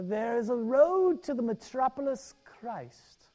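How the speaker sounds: put-on a half-hearted British accent, slow and dramatic; dramatic reading in a loose British accent; mock British accent. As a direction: read it like a British preacher with a wobbly accent. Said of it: "in my best British, Irish, Southern redneck accent".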